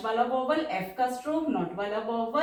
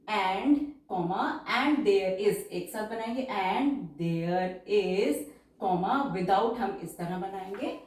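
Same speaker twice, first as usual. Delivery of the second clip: slow dictation; much slower than usual. Shown as a demonstration. Dictation mixed with Hindi explanation.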